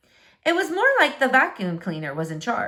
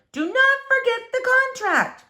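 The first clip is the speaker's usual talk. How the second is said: high, loud yell up the stairs; mother calling her daughter upstairs; mother's shout; 4 dB louder than usual. Acted. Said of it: "her mother shouted".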